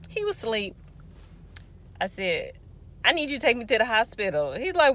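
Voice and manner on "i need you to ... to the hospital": quick, higher insistence; urgent retold plea. Woman in labor wakes brother by phone, urgent. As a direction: press the request with rising urgency.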